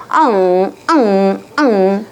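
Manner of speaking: mock childish whine, three short bursts; whining child. Shown as a demonstration. Lecturer showing parents how children fuss, whining. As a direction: imitate a kid whining in annoyance. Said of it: "이러면서 징징거리고 짜증을 내면서 징징거려요".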